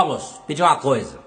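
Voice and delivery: gruff bar owner. Retold or imitated. Dono do bar, homem enorme.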